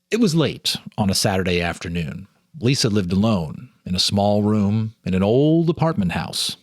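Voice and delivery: calm, measured storyteller reading; story narration. A narrator's reading. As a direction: read it like a ghost story by lamplight. Reads ghost story aloud.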